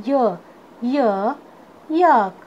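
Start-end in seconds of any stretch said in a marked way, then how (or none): 0.1-1.0 य as a lone "yuh", said separately; phonic letter sound. Shown as a demonstration. Teacher showing students the sound of Y, phonic letter sound. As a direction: sound out य as Y starts "yak". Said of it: "वाई का sound होता है".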